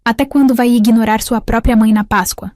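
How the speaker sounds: demanding, half-shouted reproach; indignant yelling. Acted. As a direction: yell the reproach, moderately loud. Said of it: "ouvi os gritos".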